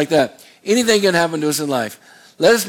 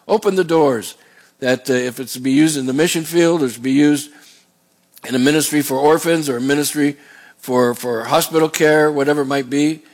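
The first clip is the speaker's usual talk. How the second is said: prayer. Acted. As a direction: pray humbly to the Lord. Pastor prays aloud.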